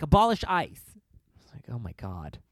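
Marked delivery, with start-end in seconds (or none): 0.0-0.8 high, loud chanted slogan; mock rally chant, high and loud. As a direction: shout it like a rally cry.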